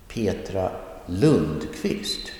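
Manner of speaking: slowly stressed Lundqvist after a lighter Petra; stress on last name. Shown as a demonstration. Teacher repeating the name example, stress on Lundqvist. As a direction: draw out Lundqvist as the stressed word. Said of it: "the last name will get the stress".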